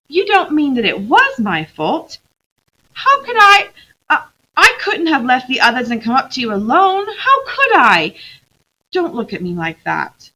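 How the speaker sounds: put-on a child insisting it wasn't her fault; Lucy pleading with Aslan, high and loud; defensive girl.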